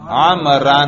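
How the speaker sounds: "عمرا" pronounced with an -an case ending; accusative ending. Shown as a demonstration. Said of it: "تلفظ کر کے دکھاؤ".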